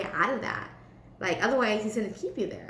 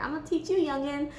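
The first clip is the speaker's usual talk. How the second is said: lightly voiced grumpy elder, pitched up; mock a scolding old-timer, higher; a hint of crotchety old man; 5 semitones higher, faster than usual. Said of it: "he's just grumpy, man".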